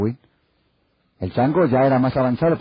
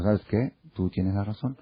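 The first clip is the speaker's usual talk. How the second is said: soft rabbi; 3 semitones lower, 6 dB quieter than usual. Retold or imitated. Rabbi agrees with husband too.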